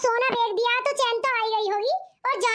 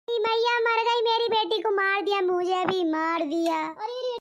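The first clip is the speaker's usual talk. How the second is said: mock lament; 3 semitones lower, slower than usual. Lamenting beaten daughter.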